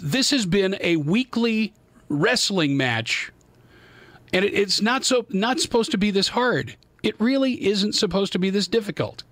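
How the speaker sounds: host fed up with broken studio tech, ranting; real frustrated rant. Real, not acted. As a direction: vent the weekly fight with the gear. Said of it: "Yes, I'm mad".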